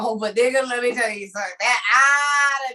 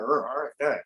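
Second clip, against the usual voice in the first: growling; 12 semitones lower, 6 dB quieter than usual. Retold or imitated. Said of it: "looking down at him like".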